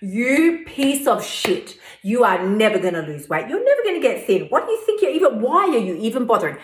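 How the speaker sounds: a hint of a scornful inner bully; harsh inner critic. Mocking her own weight-loss efforts, lightly voiced inner critic. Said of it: "This is what my voice says to me".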